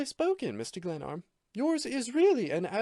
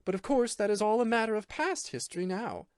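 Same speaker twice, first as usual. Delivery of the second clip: higher female voice, cold and scornful; cold disdain; 8 semitones higher than usual. A narrator's reading. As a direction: lay out his failure with icy contempt. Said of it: "cold indifference to the most severe disdain".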